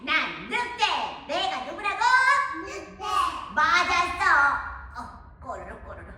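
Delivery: a sly, hungry wolf with a howl and sneaky chuckles; the hungry wolf sniffing out the piglets; hungry big bad wolf. (돼지고기 냄새를 맡는 배고픈 늑대)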